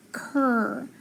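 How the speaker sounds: "cur" alone, softly held; isolated blend sound. Shown as a demonstration. Teacher telling what C R says, "cur" sounded alone. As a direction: give "cur" by itself as a letter sound. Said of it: "That C R says".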